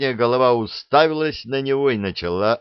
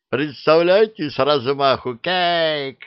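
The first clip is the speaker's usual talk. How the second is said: high, louder, slowing to the crash; excited beast; 7 semitones higher, 3 dB louder, slower than usual. A narrator's reading. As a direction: relish the crash like a silly monster. Dragon head enthuses.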